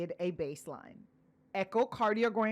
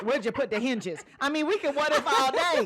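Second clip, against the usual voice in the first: higher, louder retort through laughter; laughing retort; 4 semitones higher, 5 dB louder than usual. Real, not acted. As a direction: let the laugh carry the teasing objection. Teasing what-ifs through laughter.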